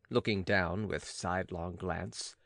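plain reading voice

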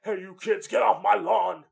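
put-on high, loud cranky old-man yell at kids; grumpy old man. Curmudgeon yelling at kids on his lawn, hammed-up old-man holler. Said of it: "turning into a curmudgeon-y old li-, man, being like".

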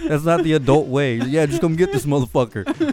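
indignant. Retold or imitated. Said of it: "I'm like".

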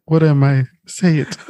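a hint of brooding vampire demanding; lightly imitating Edward Cullen; mock intense demand. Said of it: "You sound like Edward Cullen telling Bella".

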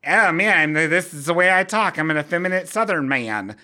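lightly mock the Southern effeminate voice; hint of a Southern accent, playfully imitating; effeminate Southern man. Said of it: "where he's like".

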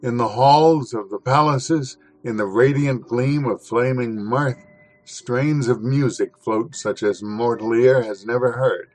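measured, expressive reading of a classic essay; dramatic literary reading. Acted. Host reading Gorky's essay to listeners, dramatic reading. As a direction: paint the city of fire with your voice.

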